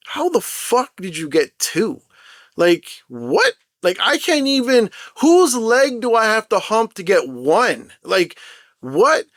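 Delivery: high-pitched exasperated disbelief; indignant retold "how on earth"; acted incredulity. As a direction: act out baffled outrage, voice jumping up. Acts out disbelief at friends' luck.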